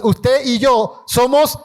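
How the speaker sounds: slow, shouted proclamation; proclaimed with authority. Real, not acted. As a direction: declare it slowly and boldly. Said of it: "Dígalo con autoridad". (proclamar despacio y con fuerza)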